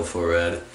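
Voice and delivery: "Faux Red" with red said like "wed"; says w for r. Real, not acted. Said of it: "I can't pronounce my R's".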